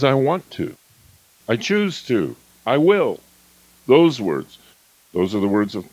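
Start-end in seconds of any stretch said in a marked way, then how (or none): 0.0-3.2 higher, firm, resolute; owner voice. Shown as a demonstration. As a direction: declare it with intention. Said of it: "The owner says".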